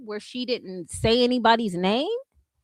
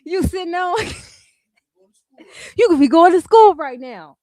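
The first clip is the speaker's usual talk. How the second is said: loud hammed-up TV ad pitch, getting louder; mock commercial voice; 4 semitones higher, 6 dB louder than usual. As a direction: scold like a cheesy college commercial. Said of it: "those commercials y'all used to watch".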